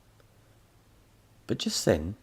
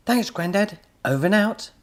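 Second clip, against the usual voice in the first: put-on excited boy; 13 semitones higher, 8 dB louder than usual. A narrator's reading. Boy character voice.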